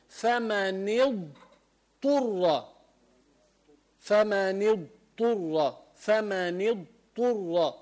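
فمن اضطر drawn out, full ḍād then ṭā'; correct ḍād, very slow. Shown as a demonstration. Teacher models the proper ḍād in اضطر. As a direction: say اضطر slowly, tongue side to the molars. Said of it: "فبيطلع عندك الضاد والطاء".

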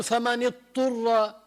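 فمن اضطر with the ḍād swallowed, sounding فمن اطر; dropped ḍād. Retold or imitated. Teacher imitates a reader dropping the ḍād. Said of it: "ما يقول".

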